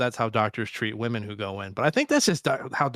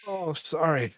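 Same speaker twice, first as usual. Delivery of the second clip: laughing through pain; 4 semitones higher, slower than usual. Real, not acted. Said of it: "Oh, it hurts to laugh".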